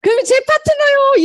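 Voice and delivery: high, loud laughing answer; laughing reply. Retold or imitated. Partner laughs with the speaker while claiming the partner, in a high laughing voice. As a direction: blurt it out through laughter. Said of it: "이러면서 서로 웃는 거예요".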